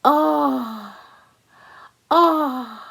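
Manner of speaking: high, drawn-out longing "oh, oh"; delighted oh. Acted. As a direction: moan with delight over the pie. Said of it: "and she said".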